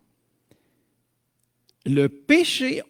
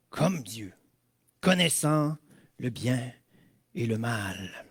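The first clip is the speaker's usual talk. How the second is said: slow, sly hissing serpent; snake voice; 2 semitones higher, 3 dB louder, slower than usual. Acted. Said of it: "Aimez-vous ma voix de serpent?".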